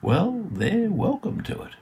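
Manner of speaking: high, slow Australian outback drawl; dry Australian drawl from an old hermit. Retold or imitated. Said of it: "in that classic Australian drawl".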